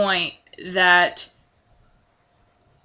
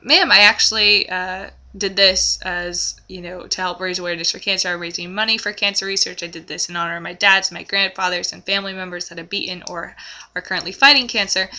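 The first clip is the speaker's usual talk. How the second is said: calm explanation; 3 semitones lower than usual. Pretend. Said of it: "but to calmly say".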